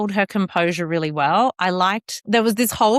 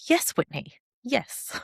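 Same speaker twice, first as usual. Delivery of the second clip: meek yes; 3 semitones higher, 7 dB quieter than usual. Retold or imitated. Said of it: "And I was like".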